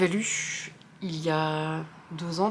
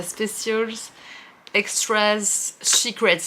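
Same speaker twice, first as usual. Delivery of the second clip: self-mocked English accent; 3 semitones higher, much slower than usual. Real, not acted. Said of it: "mon accent anglais est horrible".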